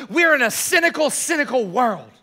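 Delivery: mock movie-speech outburst, pitched high then falling; Jerry Maguire. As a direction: imitate an impassioned film line. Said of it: "the scene from Jerry Maguire".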